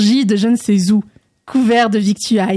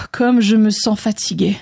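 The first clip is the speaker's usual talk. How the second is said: breath out, then weary words; sighing tiredly. Acted. André to Naoum on the way home, tired sigh. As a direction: sigh before speaking, a touch worn out. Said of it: "soupira André".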